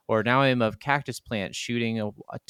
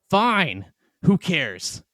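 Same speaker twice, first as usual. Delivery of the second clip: higher, louder, put-on voice, shrugging it off; mock defiant retort; 10 semitones higher, 5 dB louder than usual. Player answering the goose sign, mock defiant and higher. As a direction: sneer back at the warning sign in a silly voice.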